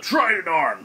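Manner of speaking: restrained battle cry; yelled attack name. Acted. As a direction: call out the attack name, half-shouted. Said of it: "yells out".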